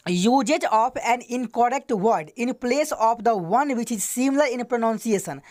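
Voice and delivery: very slow, word by word English reading; slow dictation. Shown as a demonstration. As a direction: dictate each word so students can write it down. Teacher dictates the English definition. (बहुत धीमे, शब्द-शब्द बोलकर लिखवाना)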